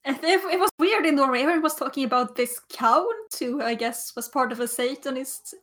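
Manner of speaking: put-on light Scandinavian accent; a hint of a Norwegian lilt. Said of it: "why am I doing a Scandinavian accent now?".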